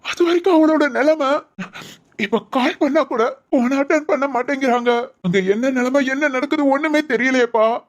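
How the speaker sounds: acted tearful fretting; anxious lament with a touch of crying; tearful worry. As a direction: protest to your father, close to tears. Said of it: "அழாத, அழாம போ".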